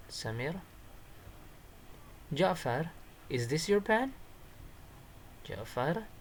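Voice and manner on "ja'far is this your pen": high character voice with rising end; acted dialogue question. Shown as a demonstration. Samir asking Ja'far about a found pen, high questioning voice. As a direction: ask it high, lifting on the last word.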